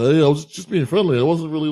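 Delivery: flustered, laughing defensively; embarrassed laugh. Retold or imitated. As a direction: laugh it off awkwardly as if caught out. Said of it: "he was all embarrassed".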